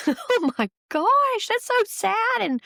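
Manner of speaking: high, giggling through the words; nervous giggles. Real, not acted. Host giggling nervously at a sad letter, high and laughing. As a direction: laugh it out despite the sad story. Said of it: "sorry, I'm laughing".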